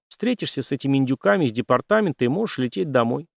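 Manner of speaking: plain reading voice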